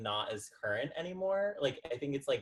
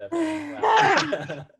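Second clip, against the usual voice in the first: laughing; 12 dB louder, much slower than usual. Real, not acted. Teasing friend, laughing.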